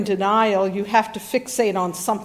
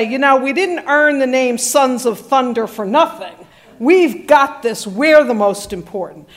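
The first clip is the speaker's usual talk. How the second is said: boastful brothers; 3 dB louder than usual. Retold or imitated. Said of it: "I can hear James and John say".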